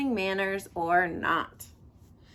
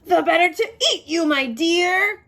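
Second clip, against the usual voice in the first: loud, high cry with a laugh in it; triumphant cry; 8 semitones higher, 9 dB louder than usual. A narrator's reading. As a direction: roar it out as he pounces. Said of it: "cried the wolf".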